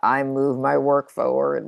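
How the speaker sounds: low, droning monotone like a zombie; zombie affirmation. Shown as a demonstration. Coach mocks rote affirmations, zombie monotone. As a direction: drone it out bored and lifeless, all on one note. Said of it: "like the zombie affirmation".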